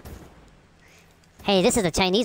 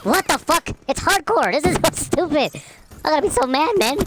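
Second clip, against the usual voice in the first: higher, louder frustrated gamer outburst with a laugh in it; loud rant; 7 semitones higher, slower than usual. Real, not acted. Gamer ranting at the game to his teammates, loud. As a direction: vent at the game, half laughing. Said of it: "I'm being loud".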